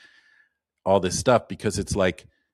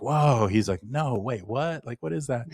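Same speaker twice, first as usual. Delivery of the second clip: higher, startled mock disbelief; a retold gasp of wonder, lightly acted; excited surprise; 4 semitones higher than usual. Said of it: "he gets all excited".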